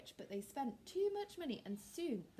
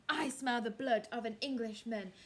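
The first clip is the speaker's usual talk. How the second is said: louder giant voice; louder storybook giant; giant threat; 6 dB louder than usual. Acted. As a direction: menace like a giant sniffing. Giant sniffing for Jack.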